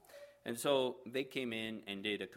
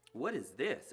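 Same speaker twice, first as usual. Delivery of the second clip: exclaimed; 5 semitones higher than usual. Acted. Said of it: "exclaims one".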